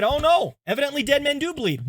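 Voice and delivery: high, quick astonished aside; a mock gasp of discovery; surprised realization. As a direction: blurt it out as if floored. Patient reverses his belief.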